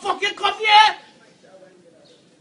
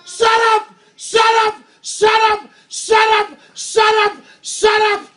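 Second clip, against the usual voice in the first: real furious yelling, pitched up; angry shouting; 5 semitones higher than usual. Real, not acted. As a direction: bark it at them over and over. Real row with workers outside.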